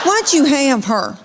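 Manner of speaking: hammed-up sibling grievance; complaining daughter. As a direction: imitate an indignant child, drawn out. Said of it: "she says something like this".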